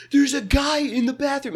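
put-on high-pitched child's announcement; kid not upset. Kid telling his family about the guy, high, matter-of-fact squeal. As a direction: pipe it up like a little kid reporting news. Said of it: "Well, he wasn't upset. He was just like".

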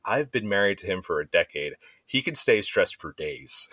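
imitated wife, drawing out the point; mock exasperated insistence; emphatic retort. Wife argues back, retold.

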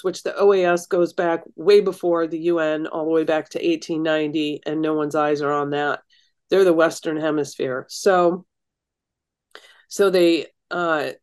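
stuffy, blocked-nose voice. Real, not acted. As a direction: speak through a blocked nose. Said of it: "I can't breathe through my nose".

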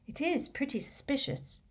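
high, soft breath of a line. A narrator's reading. Hermione weighing Harry's evidence about Malfoy, breathed. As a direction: breathe it softly, pitched high. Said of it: "breathed Hermione".

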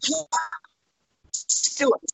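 lightly voiced showbiz boss calling; a hint of the friendly promoter on the phone; Jon Stewart style. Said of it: "in typical Jon Stewart style".

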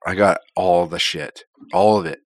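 stuffy, congested voice. Real, not acted. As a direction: talk like you have a cold, congested. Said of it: "You sound a little congested".

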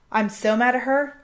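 half-hearted retold shout of fury; retold yell. Friend yelling across the room to Justin, mock angry shout. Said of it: "she yells out to".

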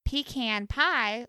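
pecan as PEE-can in pecan pie; changed pecan. Shown as a demonstration. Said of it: "look how I changed it".

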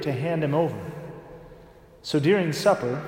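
solemn, measured Gospel proclamation; Gospel reading. Acted. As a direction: read the Gospel aloud at Mass.

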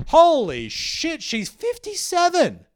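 slow, high, loud shout of disbelief; jaw-dropped yell, drawn out; astonished shout. Real, not acted. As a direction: blurt it out in stunned amazement. Finds her age confirmed online.

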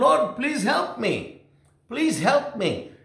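high, slow retold plea; imitated pleading. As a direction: beg for help, as a preacher voicing her. Retold woman begging Jesus for help.

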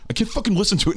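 high, whiny mock complaint; mock frustrated ex. Ex girlfriend who can no longer enjoy the song, mock whiny. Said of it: "She's like".

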